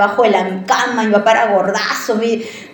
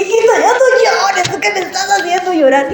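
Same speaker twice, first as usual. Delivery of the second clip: a father in tears begs his daughter to stop crying; father crying while consoling; 7 semitones higher than usual. Retold or imitated. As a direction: comfort her while tears break through. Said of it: "lo vi llorar a mi papá".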